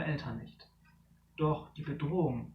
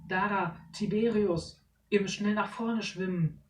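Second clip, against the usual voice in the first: higher urgent call; 4 semitones higher, 4 dB louder than usual. Acted. Parent guiding trapped children, urgent. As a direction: guide them out.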